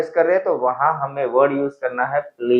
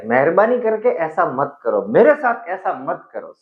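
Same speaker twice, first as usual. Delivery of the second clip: begging. Shown as a demonstration. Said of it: "जब begging, like request कर रहे हो".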